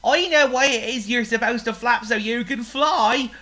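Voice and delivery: a pig bursting with news; thrilled pig voice; excited pig. Acted. Oink calls his idea.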